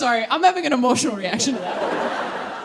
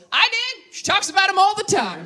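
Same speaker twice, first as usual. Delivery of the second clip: dry dad; 8 semitones higher than usual. Retold or imitated. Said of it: "And my dad goes".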